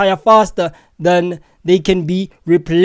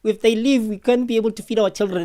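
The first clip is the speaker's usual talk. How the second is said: softer, mocking whine of her plea; mocking imitation; 2 semitones higher, 5 dB quieter than usual. Vlogger mocking a protester begging the president, soft mock whine. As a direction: mimic her pleading to make fun of it. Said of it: "Yo, she's losing it. She's like".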